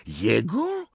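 put-on high-pitched, incredulous girl's voice; squeaky scornful outburst; Pansy exclaiming. A narrator's reading. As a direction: cry out in disbelief, very high and drawn out. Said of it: "zawołała Pansy".

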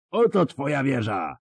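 high mocking roar. A narrator's reading. Bonhart roars at Ciri across the lake, mocking. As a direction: bellow it in triumph at her. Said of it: "ryknął".

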